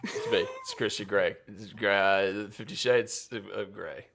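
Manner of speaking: murmured mock-seductive character read; Christian Grey. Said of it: "Christian Grey, this is a direct line".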